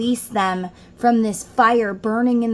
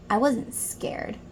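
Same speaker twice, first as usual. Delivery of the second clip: defensive whisper; 7 dB quieter, slower than usual. Retold or imitated. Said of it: "And I was like".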